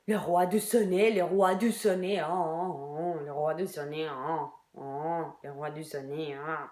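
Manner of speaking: sing-song mockery fading away; mocking. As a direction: taunt the king of the sonnet, trailing off. Mocking Shakespeare's title.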